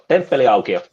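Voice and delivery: "Temppeliaukio" said fluently as one Finnish word; native Finnish pronunciation. Shown as a demonstration. Finn showing guests the church's name, native pronunciation. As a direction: give "Temppeliaukio" its native Finnish sounds, evenly. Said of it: "it's how I would pronounce it".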